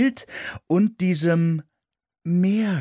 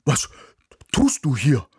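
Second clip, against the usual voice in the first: barking; 3 semitones higher, 4 dB louder than usual. A narrator's reading. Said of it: "bellte Ismir mich an".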